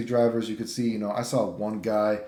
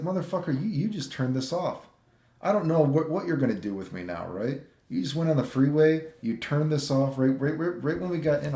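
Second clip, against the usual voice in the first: higher, worked-up retold rant; exasperated tirade, pitched up; indignant rant; 5 semitones higher than usual. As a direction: let the outrage spill out pitched up. Ranting at the scamming driver.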